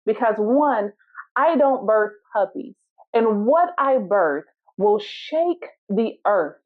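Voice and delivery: a lightly voiced, calmly assured elephant. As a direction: answer with unhurried calm. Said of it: "the elephant calmly looks at the puppy and says".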